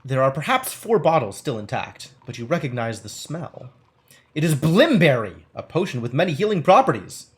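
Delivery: measured game-book narration; story narration. Acted. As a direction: read it out like an adventure storyteller. Reads game text aloud.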